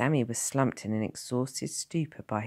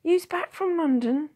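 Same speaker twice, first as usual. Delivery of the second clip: burly blacksmith voice; 7 dB louder than usual. A narrator's reading. Blacksmith greets returning Tom.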